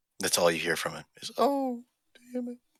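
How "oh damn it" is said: very high, hushed, barely audible muttering. Retelling the only thing you hear from him: imitating a very quiet reply. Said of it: "Just very quietly".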